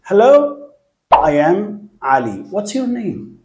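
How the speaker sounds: bright teacher demo of a greeting, rising hello; model dialogue demo. Shown as a demonstration. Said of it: "بنفس الطريقة".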